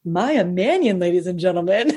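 imitated teasing announcer, breaking into laughter; mock introduction, laughing. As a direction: tease a friend with a fake stage intro. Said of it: "they tap me on the shoulder and they're laughing".

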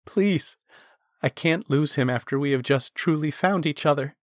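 high, imploring voice; desperate plea. Acted. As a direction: beg not to lose him. Talon begging for Riken's life.

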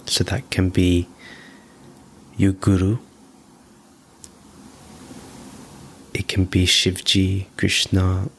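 measured meditation voice, long pauses between phrases; guided meditation. Real, not acted. Teacher guiding listeners to breathe in bliss, calm guided meditation. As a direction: lead the breathing in short, spaced-out, even phrases.

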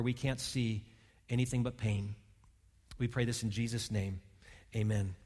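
soft, slowing prayer voice, fading to a hush; hushed pastoral prayer. Acted. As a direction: pray quietly and earnestly over the church. Leads a prayer.

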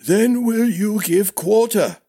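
high, insistent question; demanding old master-at-arms. Acted. Old master demanding prince's oath, high and insistent. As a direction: press him for the answer.

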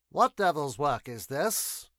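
a commander bursting in, demanding answers; alarmed exclamation. Acted. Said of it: "exclaimed the foremost man".

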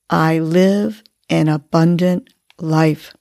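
"I live an abundant life" said slowly, breathed out; slow affirmation on the exhale. Shown as a demonstration. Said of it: "and on the exhale".

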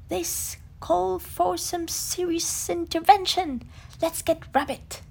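rally the troops; decisive Tigger. Acted. Tigger decides to fetch Rabbit, firm and loud.

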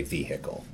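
"vehicle" with the h sounded, VEE-hickle; old regional pronunciation. Shown as a demonstration. Professor recalling how she used to speak, "vehicle" as VEE-hickle. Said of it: "I used to say".

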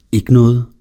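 nervous stammering reply; stammered. A narrator's reading. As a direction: blurt it out like a caught schoolboy. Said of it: "Derfor fremstammede jeg ordene".

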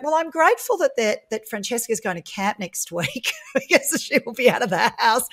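forced thanks breaking into laughter; mock gratitude. Mother finding something to be grateful for about her daughter, mock gratitude.

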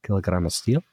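lightly put-on Scottish voice; mock Scottish, near own pitch; Scottish accent. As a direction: imitate the Scottish video riddle. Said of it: "You do a pretty good act".

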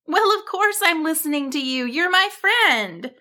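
high bird voice with a touch of amusement; amused reassurance. A narrator's reading. Bird reassures Cassandra as her friend, amused. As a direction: reassure brightly, stretching the last words. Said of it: "Barbara laughed".

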